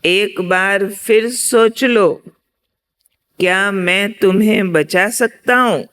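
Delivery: measured, lifted question in a storyteller's acting; भगवान. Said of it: "फिर दोबारा आवाज आई".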